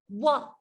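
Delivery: wah sliding out of rounded lips; W glide. Shown as a demonstration. Teacher modelling the W glide for learners, sliding out. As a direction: slide it out. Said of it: "W says".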